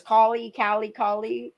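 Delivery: "Collie, Callie, Collie" with a broad open first vowel, KAH-lee; "Collie, Callie, Collie" tried out as KAH-lee variants; imitated name pronunciation. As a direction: mimic her saying "Collie, Callie, Collie" in place of Kylie. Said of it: "the way she says".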